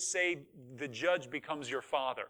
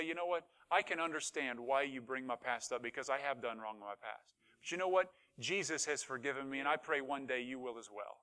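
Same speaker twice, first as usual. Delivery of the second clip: softer, lower, conciliatory voice; calm gracious reply; 3 semitones lower, 4 dB quieter than usual. Acted. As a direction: answer an accuser gently and sincerely. Modelled gentle reply to accuser.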